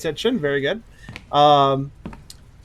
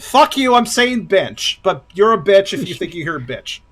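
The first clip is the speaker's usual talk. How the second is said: mock retort; 3 semitones higher than usual. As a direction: fire back in fun at the mishearer. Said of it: "That's what I'm gonna say from now on".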